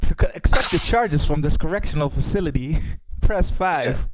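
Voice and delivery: a hint of a recorded prison-call message; automated phone operator. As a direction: lightly play the collect-call voice. Mock jail collect-call recording.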